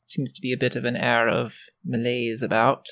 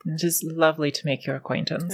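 genteel lady voice; 2 semitones higher, much faster than usual. Acted. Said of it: "this is my character voice".

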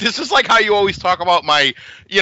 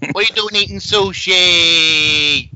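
mobster voice; slower than usual. Retold or imitated. Sopranos mobster scolding.

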